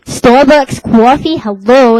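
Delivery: loud, slow exasperation; exasperated. Retold or imitated. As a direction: spell it out for a clueless clerk. Exasperated repeat to clerk.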